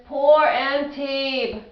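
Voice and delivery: slow, drawn out Antibes; mock-pained. Shown as a demonstration. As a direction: say Antibes slowly, with sympathy. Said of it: "I just sincerely apologize".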